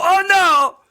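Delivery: put-on loud, high Russian-accented wail; hammed-up Russian cry of dismay, drawn out. Russian host as animal hits glass, shouted Russian accent. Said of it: "he'd come up to the window, and go".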